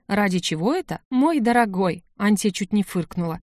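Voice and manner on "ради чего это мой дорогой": mocking imitation. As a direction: parrot his grumbling back mockingly. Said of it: "а ты только и можешь сказать".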